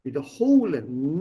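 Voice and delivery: "Wiederholen" leaning on a long HO; stress on third syllable. Shown as a demonstration. Teacher showing the inseparable verb, stress on HO. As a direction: keep wieder light, stretch HO in "Wiederholen". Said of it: "not separable".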